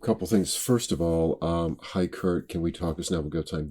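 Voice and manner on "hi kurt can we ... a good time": too tentative. Shown as a demonstration. Coach mimicking the actor's opening line, tentatively. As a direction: ask meekly, as if seeking permission. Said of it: "That is not a question".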